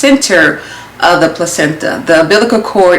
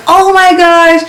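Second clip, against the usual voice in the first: high, gushing doctor voice; imitating a bubbly, delighted doctor; bubbly, cheerful; 8 semitones higher, slower than usual. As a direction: gush it high, stretching out the praise. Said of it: "she's being her bubbly self, she's cheerful".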